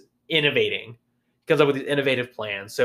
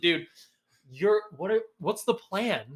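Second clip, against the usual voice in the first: incredulous; 6 semitones higher, 4 dB quieter than usual. Retold or imitated. Voicing disbelief at the soldiers.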